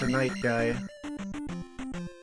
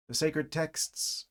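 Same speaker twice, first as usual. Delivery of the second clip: mock reverent; 3 semitones higher, 5 dB quieter, much slower than usual. Reads manual title reverently.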